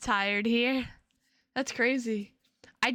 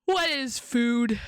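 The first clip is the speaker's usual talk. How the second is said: slow dramatic question; 3 dB louder, slower than usual. Pretend.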